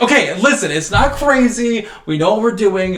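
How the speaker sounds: mock eager pitch. Imitating Dale selling bunk beds, eager. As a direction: pitch it like an excited kid.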